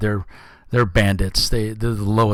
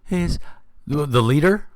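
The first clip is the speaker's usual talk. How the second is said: snarly voice; 4 semitones higher than usual. Acted. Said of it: "a, a snarly voice".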